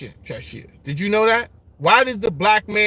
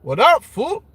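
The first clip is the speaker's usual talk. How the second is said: put-on higher, loud Chicano-accented greeting; 5 semitones higher, 3 dB louder than usual. Retelling the viewer's greeting, in a Chicano accent. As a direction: call it out like a West Coast homie. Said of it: "I heard the accent and everything".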